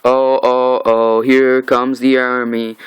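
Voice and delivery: slow, drawn-out awe; awed oh. Real, not acted. Recapping the comic to viewers, slow awed build. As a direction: savour the arrival of the army. Reacting to the Saviors arriving.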